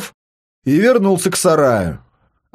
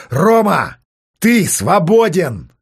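triumphant call; 3 semitones higher, slower than usual. Acted. Triumphant call after escape.

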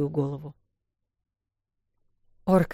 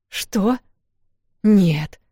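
higher, louder protest; 4 semitones higher, 6 dB louder than usual. Acted. Вэл refusing the wolf's order, loud protest. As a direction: push back hard. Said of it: "запротестовала Вэл".

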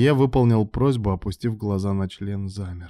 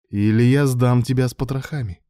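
raised, louder threat; through gritted teeth; 4 semitones higher, 6 dB louder than usual. A narrator's reading. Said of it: "процедил сквозь зубы Илья".

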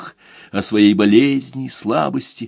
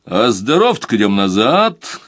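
ordinary delivery

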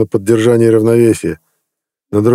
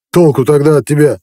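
wheezing rasp; 6 semitones higher, 3 dB louder than usual. A narrator's reading. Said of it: "захрипел Лапа".

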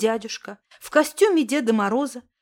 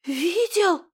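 gasping; 4 semitones higher than usual. A narrator's reading. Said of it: "ахнула я".

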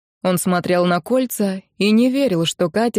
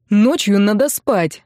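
curt; 3 dB louder, slower than usual. Acted. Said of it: "отрезал Рен".

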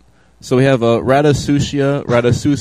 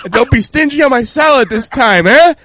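high, put-on Italian accent; cartoon Italian diner voice, much higher; mock Italian customer; 14 semitones higher, 4 dB louder than usual. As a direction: bark the order like a rude diner.

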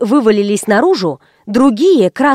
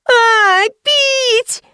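put-on much higher squealing child; child's shriek; 12 semitones higher than usual. Girl shrieks at mother for a drink, shrill. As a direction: shriek it, desperate.

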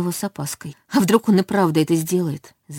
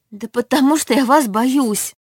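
higher, louder blurt; 7 semitones higher, 3 dB louder than usual. A narrator's reading. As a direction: let it burst out at once. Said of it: "выпалила я".

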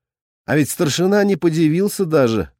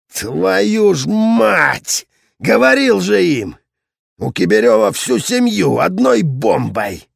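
angry swearing; 6 semitones higher, slower than usual. A narrator's reading. Regiment commander swearing on phone.

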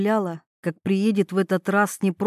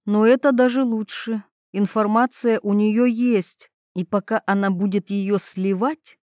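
ordinary delivery

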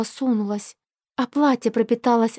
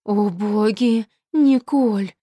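clutching his heart; much slower than usual. Acted. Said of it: "бормочет отец, хватаясь за сердце".

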